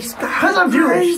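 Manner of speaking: high, slow laughing mock voice; silly put-on reply; mock answer. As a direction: drag it out, half laughing.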